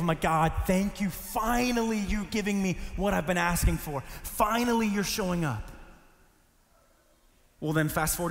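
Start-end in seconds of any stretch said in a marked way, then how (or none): 0.2-5.7 thankful relief. Retold or imitated. Student thanking God for long-awaited friends, thankful and relieved. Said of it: "I'm just so thankful".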